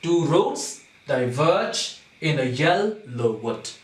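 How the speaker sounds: slow, stretched "roads", "diverge" and "yellow"; measured beat on each stressed syllable of "Two roads diverge"; scanned in feet. Shown as a demonstration. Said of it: "iambic foot".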